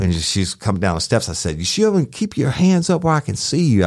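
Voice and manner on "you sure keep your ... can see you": higher, urgent order at gunpoint; retold command. Deputy ordering the armed woman, tense raised command. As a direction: bark it up high and tense.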